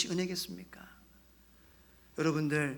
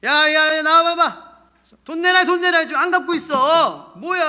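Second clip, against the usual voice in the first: loud, high, aggressive demand; debt collector shouting; 9 semitones higher, 13 dB louder than usual. Acted. Creditor demanding money back, shouting rudely. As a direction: yell like an angry creditor at the door. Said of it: "빚쟁이들이 큰 소리 치죠".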